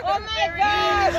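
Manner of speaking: overwhelmed surprise. Real, not acted. Meeting giveaway winner, overwhelmed.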